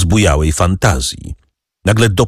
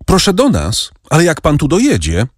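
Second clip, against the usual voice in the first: joyful call; 9 semitones higher than usual. A narrator's reading. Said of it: "zawołała Kasia nabrzmiałym radością głosem".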